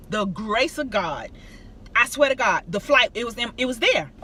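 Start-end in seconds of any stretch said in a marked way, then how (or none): 0.1-1.3 slow, softer, reverent repeat; slow reverent echo. Real, not acted. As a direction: linger on it like a quiet thanks. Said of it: "by the grace of God".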